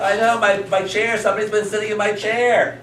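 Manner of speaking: high, hammed-up indignant father; father in story. Father discovers someone sat in his chair, mock indignation. Father's complaint echoed for children.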